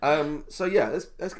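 ill, voice sounds underwater; congested, like talking underwater. Real, not acted. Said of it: "it's still making me sound like I'm underwater".

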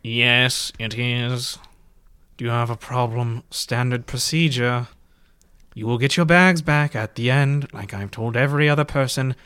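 lightly voiced ticket inspector, measured; a hint of a curt official reciting procedure; officious ticket man. Ticket man answers a porter about the bags, lightly voiced officialdom.

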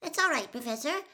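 high, quick gasping reply; strained, hurried gasp. A narrator's reading. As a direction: gasp it out politely through a squeezed throat. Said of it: "Hermione gasped".

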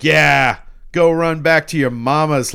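loud, high jeering call; mock hero taunt. Ash jeering at the men who would flee, loud mock taunt. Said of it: "And then he's like".

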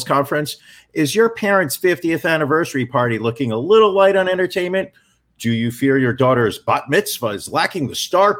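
booming radio announcer read. Acted. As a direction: sell it like a radio spot. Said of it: "I'm gonna put my radio voice on".

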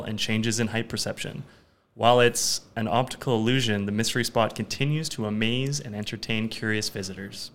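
measured read-aloud segment voice; careful presenter's read; reading a fun fact. Real, not acted. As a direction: read it out like a trivia script.

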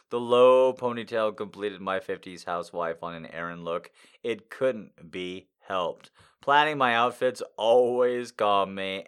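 ordinary talk

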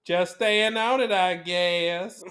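put-on movie-star accent; Elizabeth Taylor impression. Host quoting favorite movie to co-host, film-star accent. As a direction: quote the film line in character. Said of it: "As Elizabeth Taylor says to Paul Newman".

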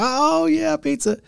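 put-on excited kid. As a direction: squeal it like a kid who smells pizza. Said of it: "I was like".

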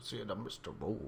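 raspy reach for Shaggy's voice; a hint of Shaggy, softly; Shaggy impression. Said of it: "make your voice a little raspy".

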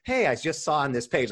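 mock-sweet polite greeting; playing the nice guy in a DM; sweet and kind. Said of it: "like, all sweet and kind and everything".

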